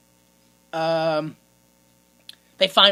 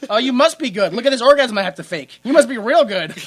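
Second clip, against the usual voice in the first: sarcastic praise; 4 semitones higher, 6 dB louder than usual. Retold or imitated. Sarcastic voiced reply of the actress.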